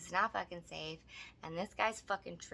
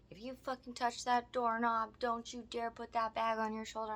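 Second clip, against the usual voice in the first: higher-pitched imitation of a threat; mock ultimatum; 4 semitones higher than usual. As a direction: lightly mimic his dramatic warning. Mimics man's escalating ultimatum.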